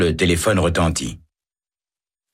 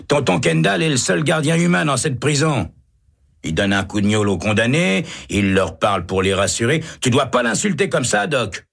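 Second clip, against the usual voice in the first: much higher, lightly voiced calling; lightly voiced prisoner hollering from his cell; 9 semitones higher than usual. Prisoner calls out defending the guard, much higher.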